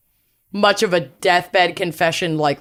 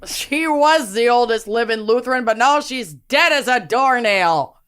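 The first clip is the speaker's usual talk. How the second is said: put-on Minnesotan accent. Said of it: "worst Minnesotan accents".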